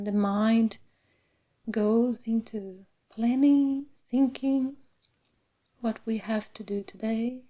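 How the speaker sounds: unhurried meditation voice with long pauses; guided meditation. Real, not acted. Meditation teacher settling the class into the body, calm guided meditation. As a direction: guide them gently through the body, phrase by phrase.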